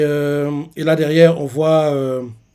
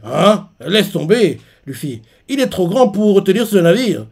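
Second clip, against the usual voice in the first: mock-irritated, pitched up and louder; annoyed Zoro; 5 semitones higher, 3 dB louder than usual. Zoro tells Luffy to drop it, mildly annoyed. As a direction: grumble it like a grumpy swordsman brushing the idea off. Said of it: "Zoro, pas content".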